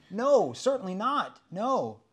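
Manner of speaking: high, loud, insistent denial; firm, loud pastoral rebuttal; emphatic no. Real, not acted. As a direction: cry out certainly not, rising high. Emphatic answer to own question.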